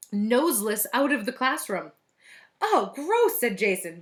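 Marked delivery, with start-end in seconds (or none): 2.6-3.4 high, loud disgust. A narrator's reading. Jason sees the nose fly off, disgusted. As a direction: groan it out in revulsion.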